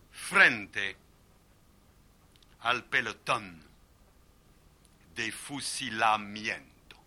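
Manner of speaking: Spanish line read slow and heavy. Shown as a demonstration. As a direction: read it out slowly, like a rafale. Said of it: "la première phrase de Cent années".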